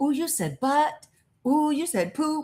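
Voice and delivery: put-on high, teasing little-kid voice with childish taunting tone. Describing how little kids act, imitating little kids teasing. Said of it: "you know how kids are".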